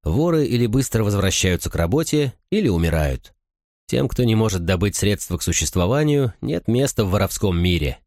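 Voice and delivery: ordinary delivery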